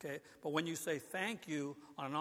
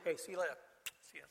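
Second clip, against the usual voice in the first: offhand goodbye; 3 dB quieter, much faster than usual. Shown as a demonstration. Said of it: "I can leave in the morning kinda like this".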